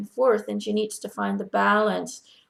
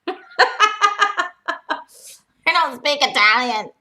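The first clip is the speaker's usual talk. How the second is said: lightly voiced mother-in-law, louder; mother-in-law's reply; 6 semitones higher, 6 dB louder than usual. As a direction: answer as the spirit, a touch playful. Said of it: "She says, ugh, can't you just say it in English?".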